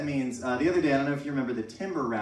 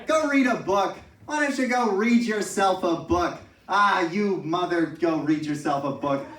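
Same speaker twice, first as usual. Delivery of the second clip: mock insult; 3 semitones higher, 3 dB louder than usual. Mock insult with book threats.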